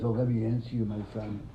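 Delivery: nicely. Retold or imitated. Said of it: "Hillel answers nicely".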